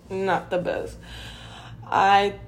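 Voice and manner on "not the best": "Not the best" repeated softer under the breath; a quieter repeat of "Not the best"; soft echo. Real, not acted. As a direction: mutter "Not the best" again as a quiet aside.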